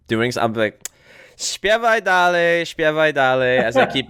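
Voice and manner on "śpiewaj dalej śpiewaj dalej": high, slow singsong taunt; taunting brush-off. Acted. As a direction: draw it out, blithely tuning out the complainer. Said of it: "I'm gonna bust this out".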